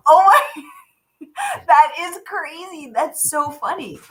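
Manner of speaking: high, laughing disbelief. Real, not acted. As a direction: laugh through the words.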